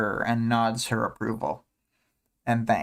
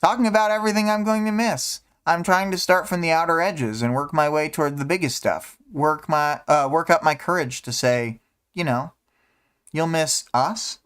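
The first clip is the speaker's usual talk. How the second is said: a lightly voiced, wistful girl, a bit higher; reading a character; 4 semitones higher than usual. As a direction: list the things she'll miss in a light character voice. Reads Imp's lines aloud.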